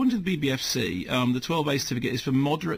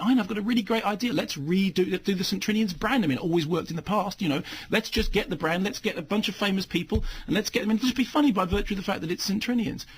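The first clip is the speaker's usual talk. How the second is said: higher, quick, eager imitation of a producer; mock enthusiastic pitch; 6 semitones higher than usual. Critic imitating somebody pitching a remake, mock-eager. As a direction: breezily sell it, in parody. Imagined film pitch, mocked.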